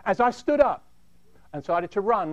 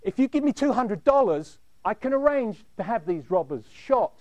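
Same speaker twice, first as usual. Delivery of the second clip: nervous manager; 3 semitones higher than usual. Retold or imitated. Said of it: "he had a very nervous disposition".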